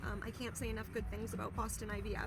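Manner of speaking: drowsy and groggy after anesthesia. Real, not acted. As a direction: talk a little groggy, sleepy after sedation. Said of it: "still a little groggy from the anesthesia".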